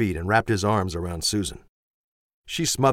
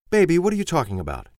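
puzzled mother; 8 semitones higher, faster than usual. A narrator's reading.

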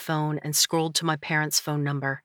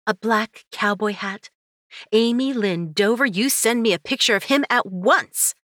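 higher, shocked and demanding friend; gasp, then demand it at once; surprised gasp; 5 semitones higher, 3 dB louder than usual. Acted. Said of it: "Mariah gasped".

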